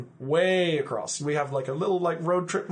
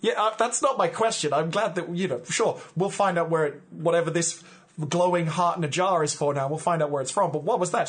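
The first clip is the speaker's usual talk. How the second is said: agitated protest; 4 semitones higher, 4 dB louder than usual. Acted. Van Helsing argues with Genevieve.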